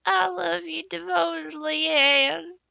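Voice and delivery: high, loud and firm declaration; staunch. A narrator's reading. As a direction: plant your feet and mean it. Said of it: "said Diana stanchly".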